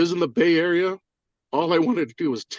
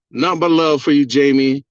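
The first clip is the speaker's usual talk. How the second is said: louder, hearty call-out; loud shout-out; 7 dB louder than usual. Real, not acted. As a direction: call it out to the host with gusto. Shout-out to host on livestream.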